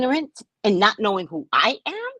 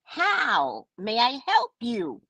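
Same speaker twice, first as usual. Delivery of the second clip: overly polite; much slower than usual. Retold or imitated. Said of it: "I responded".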